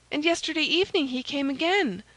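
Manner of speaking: high maid's voice, informing; anxious maid Kitty. A narrator's reading. Maid reporting the spy's visits, anxious and high.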